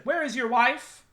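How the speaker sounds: high urgent question; urgent director. Retold or imitated. Streamer quoting the director's worry, high urgent voice. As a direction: ask it high and worried.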